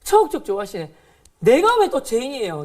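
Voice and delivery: retold angry talking back; defiant outburst. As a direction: stand up and shout back at her.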